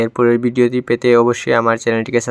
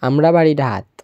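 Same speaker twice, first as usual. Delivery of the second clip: Sylheti speech, ঢাত for Dhaka; homely Sylheti Bangla; Sylheti dialect; 3 dB louder than usual. Shown as a demonstration. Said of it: "Sylheti ভাষা".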